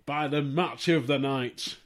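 deliberate, mock announcement; sarcastic. Real, not acted. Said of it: "He said sarcastically".

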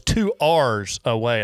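"R's" said for hours, imitating a drawl; mock Southern pronunciation. Co-host teasing the guest about his accent, mock Southern pronunciation. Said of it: "you're working on that Southern accent".

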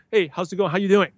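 easygoing, understated hello; casual, informal greeting. Shown as a demonstration. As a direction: toss off a relaxed hello. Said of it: "very, very casual, informal to make you feel good".

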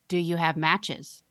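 put-on slow monotone creepy little girl; flat, eerie, slow question; creepy monotone child. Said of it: "monotone and deeply".

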